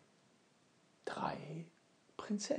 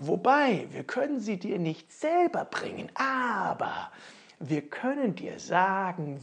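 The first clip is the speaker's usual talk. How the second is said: hohe, helle Zwergenstimmen; rufende Zwerge; 7 semitones higher, 6 dB louder than usual. Acted. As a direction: eifrige Zwerge, erst laut, dann geheimnisvoll flüsternd. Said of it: "riefen nun die Zwerge aus". (die Zwerge antworten Ofenmichel hoch und eifrig)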